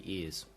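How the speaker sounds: YES said like "ears", posh English. Shown as a demonstration. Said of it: "sound like a very posh English yes".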